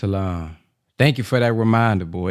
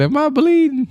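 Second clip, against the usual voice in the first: high, louder mock dazed question; mock stunned question; 3 dB louder than usual. Retelling the backflip video, high mock dazed quote. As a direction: ask it like the dazed guy in the video.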